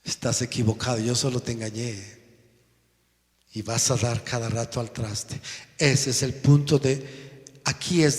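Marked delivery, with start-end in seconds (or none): 0.0-2.2 devil. Retold or imitated. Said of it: "viene el diablo y se ríe y dice".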